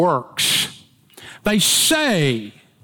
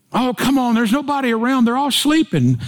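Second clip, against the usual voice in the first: put-on pleading boyfriend; 6 semitones higher than usual. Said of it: "I begged".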